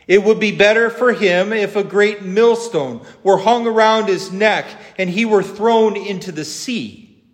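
solemn, emphatic gospel reading; formal public Bible reading, lifted at each new warning; scripture reading. Acted. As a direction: read the Gospel aloud with measured pauses. Reads the gospel aloud.

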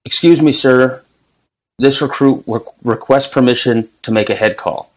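a lightly barked formal recruit request; barked sir yes sir. Retold or imitated. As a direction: recite it like a recruit at attention. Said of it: "you have to request".

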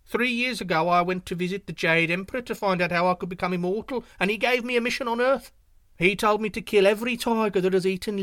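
high, loud and quick bragging deer voice; boastful little deer. Acted. Yu Yu bluffs the tiger about his spots, high and boastful. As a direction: puff yourself up, a tiny creature bluffing big.

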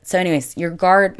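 ordinary delivery

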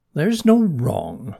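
slow, drawn-out reassurance; reassuring. A narrator's reading. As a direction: reassure a worried friend, unhurried. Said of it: "Mona assured him".

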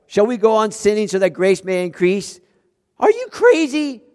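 mock shout. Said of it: "Paul would be shouting".

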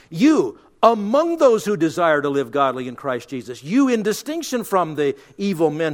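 "you" punched loud and set apart by pauses; single out the listener with a forceful "you"; emphatic YOU. Shown as a demonstration. Preacher singles out the faithful from evil men, stressing "you". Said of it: "the first emphatic you".

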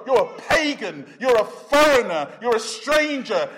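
scornful accusers. Acted. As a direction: shame her with each label. Preacher voices people shaming Rahab.

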